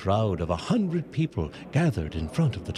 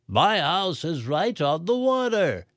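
yelled; 8 semitones higher than usual. A narrator's reading. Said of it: "the coffee shop owner yelled".

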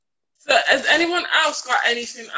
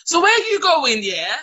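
loud, higher mimicked chat-up line; 5 semitones higher, 7 dB louder than usual. Man trying it on with a passer-by, chat-up. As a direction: pitch it up like a cocky street approach. Acting the man chatting her up.

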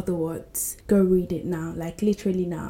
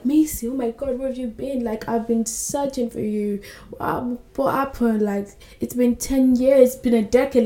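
urgent pleading; 3 semitones higher than usual. Retold or imitated. Acted ex confronting runaway heroine.

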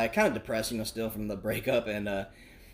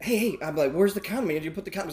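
mock panic; 6 semitones higher, 3 dB louder than usual. Panicked inner outburst.

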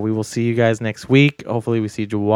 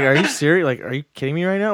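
higher, mildly incredulous questioning; retold disbelief; 5 semitones higher, faster than usual. Telling co-host about the record, retold disbelief. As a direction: replay your disbelief, quickening at the end. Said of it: "I was so shocked".

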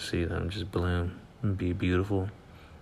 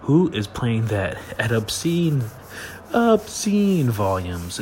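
exasperated shout; 3 semitones higher, 6 dB louder, slower than usual. Retold or imitated. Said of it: "I'm like".

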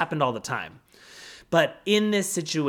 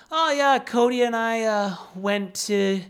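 nonchalant; 4 semitones higher than usual. Retold or imitated. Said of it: "as nonchalant as possible".

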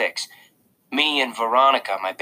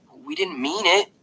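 put-on boy protesting. A narrator's reading. Jack protesting.

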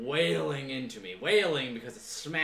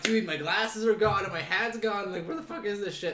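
agitated; 6 semitones higher, 4 dB louder than usual. Retold or imitated. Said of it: "And I'm like".

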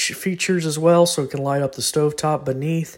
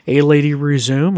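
voice command; 8 dB louder than usual. Shown as a demonstration.

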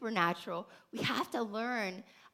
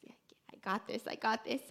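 whispered self-reassurance; 5 dB quieter than usual. Retold or imitated. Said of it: "me being a woman of faith".

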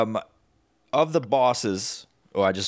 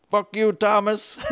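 mock curse; 11 semitones higher than usual. Mock cursing a game character.

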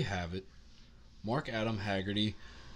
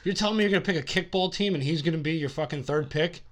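mock outrage; 6 semitones higher, 4 dB louder, faster than usual. Real, not acted. Mock outrage over pick.

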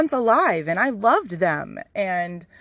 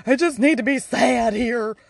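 exasperated complaint; 4 semitones higher, slower than usual. Retold or imitated. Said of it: "and I was like".

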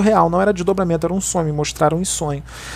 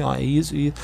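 lower, softer demonstration of calm talk; 4 semitones lower, 5 dB quieter than usual. Shown as a demonstration. Medium approaching an aggressive person who won't listen, calm. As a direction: drop the voice to soothe. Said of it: "vou falar calmo, falar assim".

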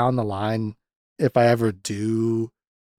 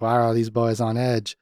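put-on Southern accent. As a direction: imitate the movie marshal with a touch of Southern. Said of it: "I've been doing Southern for him".

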